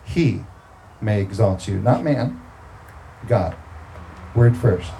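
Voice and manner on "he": He set apart and weighted; stress on He. Shown as a demonstration. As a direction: land on He as if circling it. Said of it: "Circle he".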